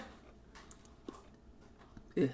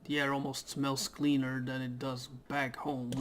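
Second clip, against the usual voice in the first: a touch higher, casual first-person reading; lightly voiced game character; 3 semitones higher than usual. The newly arrived traveller musing on the air, lightly voiced. Reads the main character's lines.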